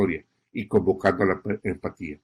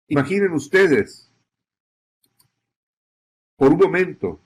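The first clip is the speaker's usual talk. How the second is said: slightly raised, paced with pauses, pulling listeners into the scene; emotive report narration. Shown as a demonstration. Reporter inviting viewers to imagine the flood, emotive narration. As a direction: paint the loss of a home for the audience. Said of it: "Utiliza la frase, "Imaginen ustedes".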